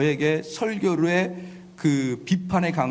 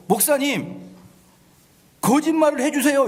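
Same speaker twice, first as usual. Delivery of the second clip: mock shout; 9 semitones higher than usual. Congregant calling out to the pastor, mock shouting. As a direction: ham up a congregant yelling for lies. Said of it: "이렇게 외치는 게 아니에요".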